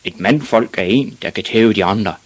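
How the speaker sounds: mildly shouted lesson; shouting father. Acted. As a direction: declare it like a blustering dad. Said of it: "råbte hans far".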